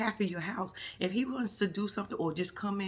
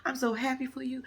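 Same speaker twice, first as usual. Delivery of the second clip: high gushing mom; 6 semitones higher, 3 dB quieter than usual. Retold or imitated. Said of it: "She's like".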